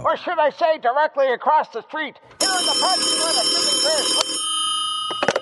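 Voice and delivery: broadcast heard through a radio speaker; tinny radio playback of the report; over the radio. Acted. Hart listening to Buzz's broadcast, heard through the radio. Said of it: "listening to Buzz's broadcast on the radio".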